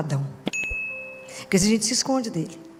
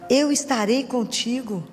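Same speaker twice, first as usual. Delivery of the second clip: slow, measured divine promise; solemnly slow acted assurance; God's promise; 3 semitones higher, slower than usual. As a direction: draw each word out as God promising. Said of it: "E ele fala assim".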